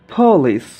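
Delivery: "পলিশ" opening with a puffed p; breath burst on the p of "পলিশ"; aspirated P. Shown as a demonstration. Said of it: "যেমন". ("পলিশ" মহাপ্রাণ প দিয়ে)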